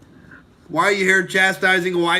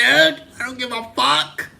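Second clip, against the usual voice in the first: defiant outburst; 7 semitones higher than usual. Real, not acted. Ranting at chat, defiant repeat.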